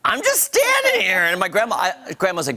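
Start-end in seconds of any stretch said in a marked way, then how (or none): 0.0-1.2 put-on high, small innocent kid voice; innocent child voice. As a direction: play the wide-eyed little kid. Child retelling being blamed.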